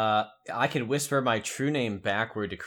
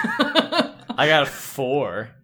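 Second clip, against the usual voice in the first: laughing; 3 semitones higher, 3 dB louder, much slower than usual. Real, not acted. Laughs while reporting roll.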